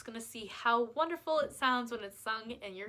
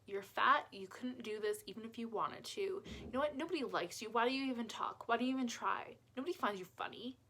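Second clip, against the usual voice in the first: a quiet, cutting critic across the table, mostly softer; mocking inner critic; 5 dB quieter than usual. Shown as a demonstration. Someone across the table tearing you down, quiet and cutting. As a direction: hiss the put-downs at yourself. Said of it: "they were sitting across the table from you and they said".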